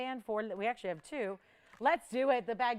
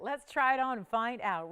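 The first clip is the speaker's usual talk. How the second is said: a touch louder and keener, selling the try-on; eager sales push; 4 dB louder than usual. Shown as a demonstration. Host to viewers, keen try-on pitch, a bit louder. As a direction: lean in, keen to show it. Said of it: "I have not tried this one on yet".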